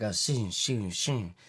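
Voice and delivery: soft metallic shing, sword being drawn; shing sound. Shown as a demonstration. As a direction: whisper a blade sliding out. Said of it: "Is that, is that what we're doing?".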